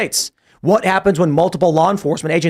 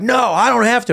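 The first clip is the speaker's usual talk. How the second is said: tag; 7 semitones higher than usual. Retold or imitated. Acting defiant agent refusing cops.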